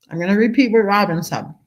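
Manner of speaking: talking through a mouthful of food; mouth full. Real, not acted. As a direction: speak around a bite of lunch. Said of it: "talking with my mouth full".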